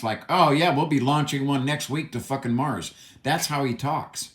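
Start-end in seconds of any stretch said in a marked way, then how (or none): 0.3-2.9 lightly voiced breezy billionaire, mock casual; a hint of a smug Musk impression. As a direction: toss it off like an overconfident tech boss. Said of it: "This is how he talks".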